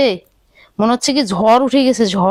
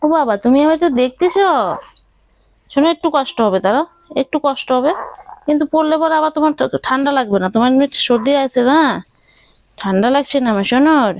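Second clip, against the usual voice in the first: raised, tender coaxing motherese; baby talk; 3 semitones higher than usual. Acted. Mother dressing her baby in a sweater, in raised cooing baby talk. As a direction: coo to the baby while dressing him.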